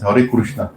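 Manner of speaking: "Krishna" said as "Kurushna", with u vowels; Oriya pronunciation. Shown as a demonstration. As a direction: give "Hare Krishna" the Oriya "Kurushna" sound. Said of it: "In Oriya, that's".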